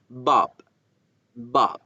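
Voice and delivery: Bob with a slight lip vibration; just a little buzz on Bob; light buzz on b. Shown as a demonstration. Teacher shows a moderate b vibration in Bob. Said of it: "Pero sí hacer la vibración un poco".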